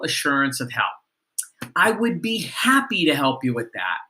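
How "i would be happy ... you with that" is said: enthusiastic. Shown as a demonstration. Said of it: "So enthusiastically".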